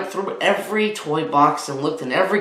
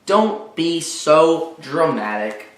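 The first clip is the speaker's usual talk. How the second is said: eye-rolling mother; slower than usual. Acted. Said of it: "rolling her eyes".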